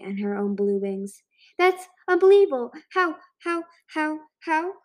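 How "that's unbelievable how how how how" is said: high, excited exclamation; amazed excitement. A narrator's reading. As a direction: start loud, then repeat in high disbelief. Amazed friend greets the escapee.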